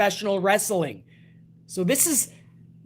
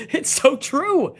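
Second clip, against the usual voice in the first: laughing; 5 semitones higher, slower than usual. Real, not acted. Laughing after the joke.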